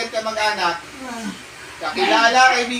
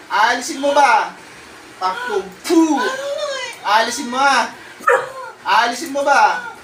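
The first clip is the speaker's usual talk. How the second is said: commanding the spirit; 3 semitones higher than usual. Real, not acted. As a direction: bark orders at the spirit. Exorcist interrogating the spirit.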